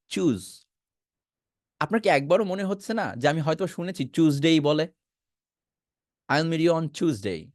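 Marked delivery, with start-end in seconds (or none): 6.3-7.5 slow, even English sentence with "Tuesday" as chooz-day; slow model sentence. Shown as a demonstration. Teacher playing a native speaker line, slow. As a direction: spell it out slowly for learners. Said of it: "এভাবে কি শুনেন নাই কখনো".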